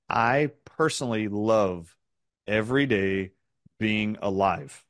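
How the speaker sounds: slow, each phrase set apart with pauses; slow emphatic. Shown as a demonstration. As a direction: linger on every day and being alive. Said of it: "I mean, I actually love being alive".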